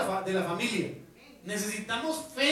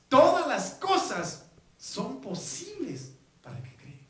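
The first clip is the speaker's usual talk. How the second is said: slow, weighty promise; a hint of a solemn Jesus, slow; Jesus declaring; 3 semitones higher, 4 dB louder, slower than usual. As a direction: lay each word down with authority. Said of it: "Jesús le dijo".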